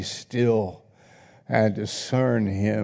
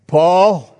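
loud shout; 7 semitones higher, 9 dB louder than usual. Shown as a demonstration. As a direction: shout Paul high and loud. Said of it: "Let's do it with a loud voice".

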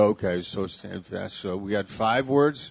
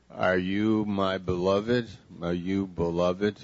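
tender question; 2 semitones lower than usual. Shown as a demonstration. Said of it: "that's one".

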